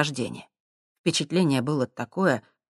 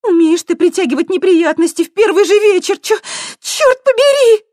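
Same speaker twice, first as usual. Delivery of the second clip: much higher, louder, stumbling; out of breath; 11 dB louder than usual. A narrator's reading. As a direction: complain between gasps. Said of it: "пыхтела Светка". (задыхаясь на бегу)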